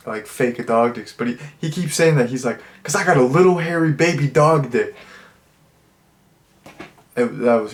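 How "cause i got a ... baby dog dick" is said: higher, put-on doofy confession voice; deadpan it like a silly macho guy admitting a secret; Turbo's catchphrase. Reviewer quoting the frat guy's running joke in a put-on voice.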